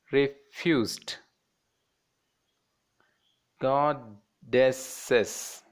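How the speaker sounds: each word broken syllable by syllable, slowly; split into syllables. Shown as a demonstration. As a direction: sound out "powerful, impressed, refused, goddesses" in separate beats. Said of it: "divide these words, fourteen words".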